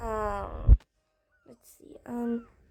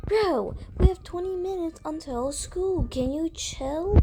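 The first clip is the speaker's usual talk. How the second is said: higher-pitched exasperated retort; 5 semitones higher than usual. Acted. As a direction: push back at a nagging partner. Couple bickering over being late.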